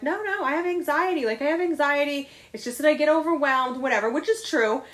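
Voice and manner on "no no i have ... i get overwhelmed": mock defensive excuse. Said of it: "normally my excuse would have been like".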